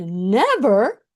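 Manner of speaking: firm, rising refusal to give up; retold defiant vow. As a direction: insist you won't quit. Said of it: "as I'm clearing my eyes, I said".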